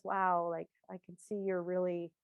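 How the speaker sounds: a husband soothing his upset wife; gentle empathy. Retold or imitated. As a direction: calmly reassure someone who is upset. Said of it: "my husband comes up to me and says".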